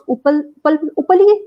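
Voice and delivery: trying out उपल slowly with a short 'u' at the start, questioning; unsure pronunciation. Real, not acted. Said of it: "शायद मैं सही pronounce कर रही हूँ".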